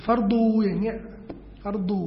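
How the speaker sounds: "ฟัรดู" with a long final oo; localised Arabic word. Shown as a demonstration. Teacher citing a distorted loanword, "ฟัรดู" ending in long u. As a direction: draw out the end of "ฟัรดู" as locals do. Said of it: "มีอะไรที่มันเพี้ยนเยอะ".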